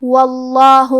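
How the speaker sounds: واللہ with a thick, full lam; heavy lam. Shown as a demonstration. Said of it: "لام کو تفخیم سے مطلب موٹی آواز میں".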